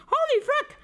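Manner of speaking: sudden high shriek of fright; jolted by a jump scare; scared horror game streamer. Real, not acted. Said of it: "Why did that jump scare me so hard?".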